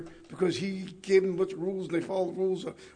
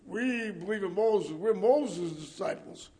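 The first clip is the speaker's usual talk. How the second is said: very slow, self-satisfied; smug Pharisee; slower than usual. Pretend. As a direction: drawl their boast in a smug voice. Mocking Pharisees' claim.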